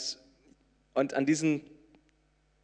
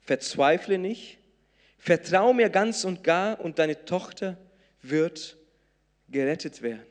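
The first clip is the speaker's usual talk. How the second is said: Jesus's encouraging words; 3 semitones higher, 4 dB louder than usual. Acted. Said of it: "das sind die Worte Jesu".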